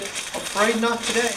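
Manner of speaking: a light, slow prim little-lady voice; gentle mock-dainty take on the policeman. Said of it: "like a little lady".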